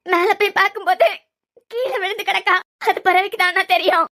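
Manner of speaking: weepy, pausing to get the words out; tearful account. Acted. Young woman explaining the child's fall to her brother, tearfully. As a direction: tell it through tears, in halting bursts. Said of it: "சாரு, அழுறத நிறுத்து".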